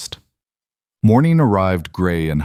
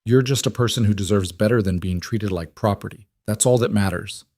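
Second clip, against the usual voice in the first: softened. Acted. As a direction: ease the edge off the voice. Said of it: "He softened it".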